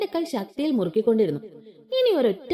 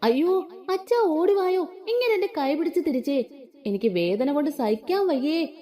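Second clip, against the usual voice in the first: fake wail; 5 semitones higher than usual. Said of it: "ഒന്നുകൂടെ ഉറക്കെ അലറി".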